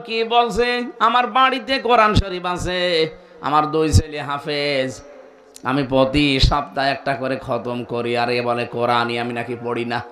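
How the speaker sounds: a hint of an offended listener protesting; doubting listener. Preacher voicing a doubting listener, lightly mock offended. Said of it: "মনে মনে ভাবতে পারেন".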